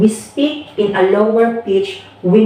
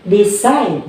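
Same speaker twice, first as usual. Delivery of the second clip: "decide" stressed on CIDE with a fall; second-syllable stress. Shown as a demonstration. Teacher confirming the example, "decide" stressed on CIDE. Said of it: "from side".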